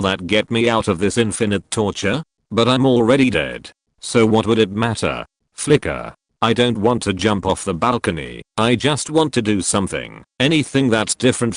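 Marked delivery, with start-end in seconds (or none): 5.5-6.1 low flicker. Acted. Narrating the trip loop, a low dropped flicker. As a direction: say it low like a blink of lost time. Repeated refrain.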